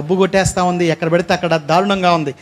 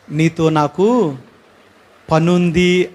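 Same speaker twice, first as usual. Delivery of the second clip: mysterious voice heard; 5 semitones lower, much slower than usual. Retold or imitated. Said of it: "అనే మాట నాకు వినపడుతుంది".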